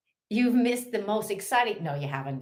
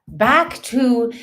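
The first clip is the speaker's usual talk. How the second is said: mock-professional; 6 semitones higher, 8 dB louder than usual. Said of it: "the professional job at hand".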